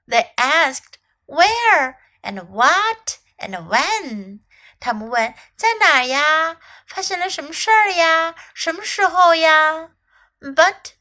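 bright, lively storybook reading, switching English and Chinese; story narration for children. A narrator's reading. Teacher reads the elephant story aloud to young learners, lively storybook voice. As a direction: read it like a bedtime picture book, lively and clear.

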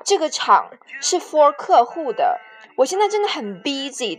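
lightly mocking code-switcher; mock show-off. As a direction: poke fun at the English drop-ins. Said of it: "最不喜欢听到的句子".

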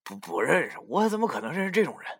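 dismissive, rattled off fast; contemptuous. Acted. Youxi sneers at the narrator in front of Li Gong, fast and contemptuous. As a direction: brush him off with scorn. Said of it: "十分轻蔑的口气说".

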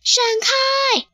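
high sharp warning yell; alarmed shout. Acted. Friend yelling a warning as the carpet dives. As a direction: shout to get them out of the way.

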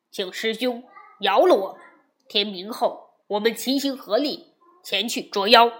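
loud desperate begging; pleading disciple. Acted. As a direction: kneel and beg him loudly to stop. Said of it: "沙僧连忙跪下哀求说". (大声苦苦哀求)

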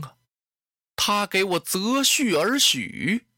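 Diaochan pleading through mild tears, slowing at the vow; a touch of tearful devotion in a storyteller's voice; tearful plea. Acted. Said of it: "眼泪下来了".

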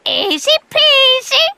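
parrot mimic. Parrot repeats phrase.

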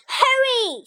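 high, loud, laughing urge; urgent hurry. Acted. Frog urges Toad to chase the list, high and loud. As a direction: spur your friend on with a laugh. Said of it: "said Frog".

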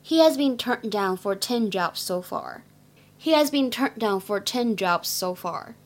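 slow, careful model sentence; slow reading. Shown as a demonstration. Teacher reads the translation exercise slowly. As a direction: read it slowly twice. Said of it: "我们来看一下下面这句话".

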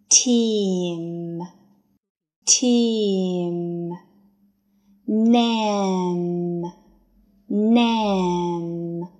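"team" and "name" said very slowly, ending with a light released uh; slow drawn-out sounding. Shown as a demonstration. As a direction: stretch out "team", "name" with the lips opening at the end. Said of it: "后面的这个呃的这个音它是带出来的".

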